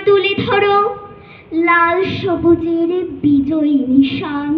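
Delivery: impassioned, measured declamation with ringing phrases and long pauses; poem recitation. Acted. Student reciting to judges a poem rallying young protesters, impassioned declamation. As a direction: recite a rousing protest poem, line by deliberate line. আবৃত্তি করছি কবি.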